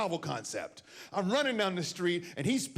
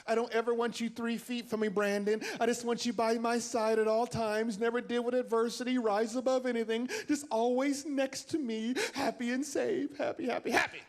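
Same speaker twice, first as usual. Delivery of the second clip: higher, sing-song smothering mom; mock doting mother; 5 semitones higher than usual. Mother tells her son to stay close, mock doting. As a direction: coo like a clingy parent.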